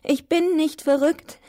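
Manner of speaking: high, slow protest; high-voiced cry. A narrator's reading. High voice denying madness, slow mild cry. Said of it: "ich hörte eine hohe Stimme".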